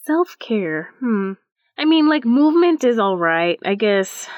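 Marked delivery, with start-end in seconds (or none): 1.8-4.3 lukewarm, comic reluctance; grudging concession. Real, not acted. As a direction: concede it half-heartedly. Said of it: "I like how you said that".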